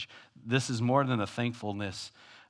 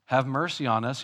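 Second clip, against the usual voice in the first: calling out; 3 semitones higher, 4 dB louder than usual. Retold or imitated. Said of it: "he was calling out".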